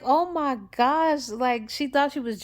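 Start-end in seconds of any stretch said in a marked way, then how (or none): 0.0-1.3 slow, high, louder "oh my gosh" in disbelief; stunned gasp. Retold or imitated. Felicia hearing the proposal, stunned disbelief. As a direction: let it out like you can't believe it.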